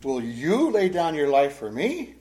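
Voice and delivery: slow, incredulous query with rising end; ironic question. Acted. Jesus answering Peter's vow to die, ironic question. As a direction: ask it slowly, doubting the offer. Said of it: "notice the irony in that statement".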